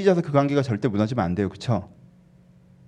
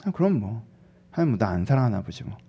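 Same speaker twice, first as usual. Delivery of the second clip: softly resigned, sulky grumble; mock sulk; 4 semitones lower, 5 dB quieter than usual. Believer sulking that God does not love them, sulky. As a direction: act out a quiet huff. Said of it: "삐져가지고 말도 안 하고".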